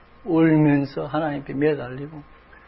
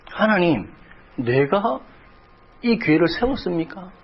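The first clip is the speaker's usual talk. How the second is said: lightly pleading, a touch higher; mild retold lament; 3 semitones higher than usual. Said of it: "하나님을 원망도 했습니다". (살짝 원망하듯 하나님께 묻는 목소리)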